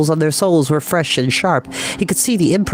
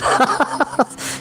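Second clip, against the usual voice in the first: a high breathy burst of laughter; hearty laugh; 12 semitones higher than usual. A narrator's reading. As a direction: laugh off the silly question. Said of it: "laughing heartily".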